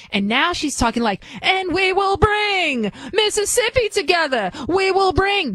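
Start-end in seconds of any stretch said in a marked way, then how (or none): 1.4-5.5 much higher, hammed-up Southern Baptist preacher accent; mocking Southern Baptist preacher accent, pitched high. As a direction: parody a Southern Baptist preacher rallying the crowd. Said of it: "Now she's become a Southern Baptist preacher".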